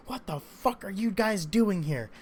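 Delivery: angry cop. Retold or imitated. Angry cop confronting them.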